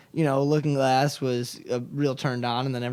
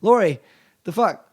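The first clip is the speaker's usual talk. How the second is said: higher, louder, betrayed outrage; indignant disbelief; 5 semitones higher, 7 dB louder than usual. Retold or imitated. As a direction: sound stunned at her betrayal. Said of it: "And he's like".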